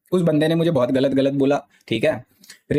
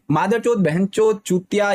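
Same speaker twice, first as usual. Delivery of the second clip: casual swear list; 4 semitones higher, slower than usual. Shown as a demonstration. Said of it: "ये सब गालियाँ चलती है भाई".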